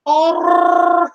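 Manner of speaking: a shrieking laugh at the memory; high laughing oh; high squeal of laughter. Real, not acted. Laughing at the trilling.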